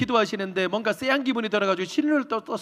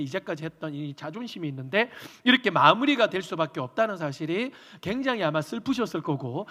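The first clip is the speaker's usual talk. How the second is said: ordinary talk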